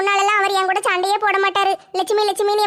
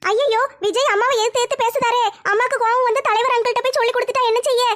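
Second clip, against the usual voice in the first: put-on higher girlish fretting aside; worried young girl; 4 semitones higher than usual. Daughter worries aloud that Vijay will be beaten, girlish. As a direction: fret to yourself like a young girl.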